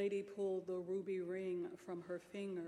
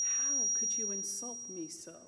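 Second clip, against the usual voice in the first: loud, insulted reproach; offended outrage; 9 dB louder than usual. Acted. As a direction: hurl it at the captain. Lady scolds the captain.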